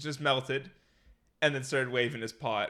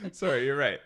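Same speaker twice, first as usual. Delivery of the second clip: laughing apology; 6 dB louder than usual. Real, not acted. Laughing at own slip.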